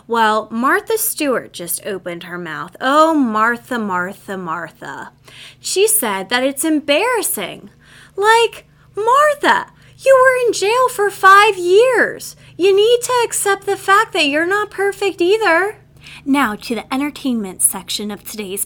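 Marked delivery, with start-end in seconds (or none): 2.8-5.1 disappointed tut. Real, not acted. Scolding Martha Stewart. 8.1-15.8 exasperated rant. Real, not acted. Ranting at Martha Stewart.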